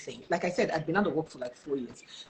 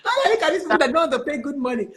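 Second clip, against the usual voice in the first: raised, animated telling-off; mock indignant outburst; 5 semitones higher, 4 dB louder than usual. Candidate threatening a stingy company in jest, mock indignant. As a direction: scold them in playful outrage, pitched up.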